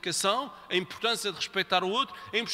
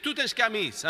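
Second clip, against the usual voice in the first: bossy order; 3 semitones higher, faster than usual. Shown as a demonstration. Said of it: "Em vez de dizer".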